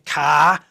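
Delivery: "ka" said for "car", the R fully dropped and pushed. Retold or imitated. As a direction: lean hard into the Boston "ka". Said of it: "lean into it".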